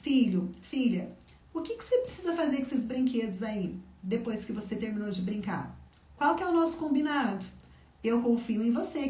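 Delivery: put-on crouch to the child's eye level and reassure; gentle firm mother. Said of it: "baixa na altura da criança, olha olho no olho dela e fala assim".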